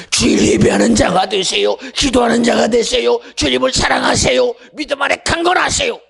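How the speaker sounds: rousing pulpit exhortation; fervent exhortation. Acted. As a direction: urge the flock with fire. Exhorting congregation.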